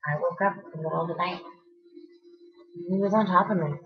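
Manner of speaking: soft, even imitation of her account; calm retelling. Quoting friend's account of waking in the night, calmly. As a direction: quote it back softly and calmly. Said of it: "you told me all this so calmly".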